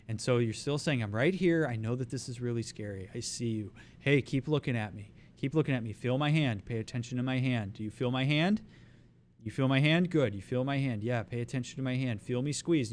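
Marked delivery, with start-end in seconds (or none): 1.0-12.9 slowing down. Shown as a demonstration. Coach slowing the voice to calm a panicking person. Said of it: "you're slowing your voice down".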